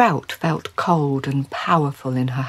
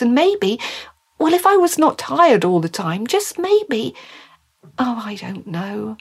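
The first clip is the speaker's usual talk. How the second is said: higher, wistful pondering; Mary thinking aloud; 4 semitones higher than usual. Acted. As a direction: build hopefully, then give up undecided.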